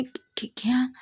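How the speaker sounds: shocked stammering whisper; stunned stammer. A narrator's reading.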